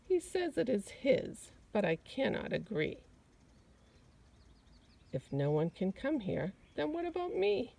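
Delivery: a small rabbit pleading its case; rabbit's protest. Acted. Rabbit answering the gardener, mildly indignant. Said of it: "a rabbit who started to speak".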